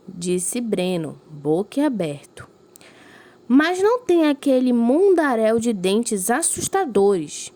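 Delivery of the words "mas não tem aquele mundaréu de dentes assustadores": higher and louder, slow and incredulous; astonished question. Acted. Teacher voicing a child astonished by the fish's teeth. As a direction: ask in wide-eyed disbelief.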